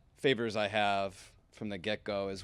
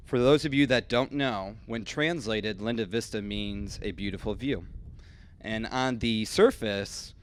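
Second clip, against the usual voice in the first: teleprompter read. Real, not acted. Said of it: "I'm gonna read this to you".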